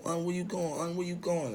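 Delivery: imitated woman calling after him; Arlene. Acting Arlene chasing him.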